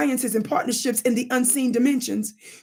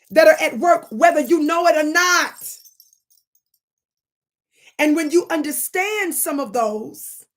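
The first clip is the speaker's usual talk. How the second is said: higher, slower, rising preacher cadence; preaching; 5 semitones higher than usual. Real, not acted. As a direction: preach it, building to a peak.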